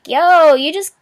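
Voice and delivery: mock irritated retort; mock annoyed outburst. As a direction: snap at the negative lady, half joking. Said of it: "negative energy that was just like".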